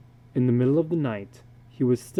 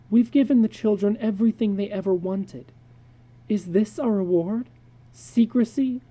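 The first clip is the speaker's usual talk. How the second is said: higher, exasperated wife; wife complaining about the spoiled children; wife's voice; 4 semitones higher, 4 dB louder than usual. Acted. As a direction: vent it like a fed-up mother.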